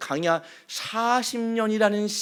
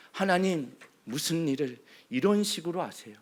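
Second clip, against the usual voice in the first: softer, bitter murmur of grievance; quiet complaint; 4 semitones lower, 8 dB quieter than usual. Acted. Moses' grievance repeated softly, as if inward. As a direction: say it low, almost to yourself. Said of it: "원망과 불평".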